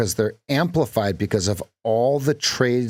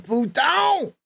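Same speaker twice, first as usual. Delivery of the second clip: much higher squeaky mock French; mock French surprise; 13 semitones higher, slower than usual. Coach mocks surprised French speech. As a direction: sound surprised, very high. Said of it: "always surprised at the end of the sentence".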